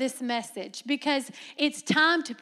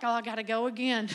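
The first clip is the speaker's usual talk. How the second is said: fast, laughing mock complaint; mock whine with a laugh; 4 semitones lower, faster than usual. Preacher mimics a churchgoer returning to the altar, laughing. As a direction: groan through a laugh about going back. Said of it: "you're like".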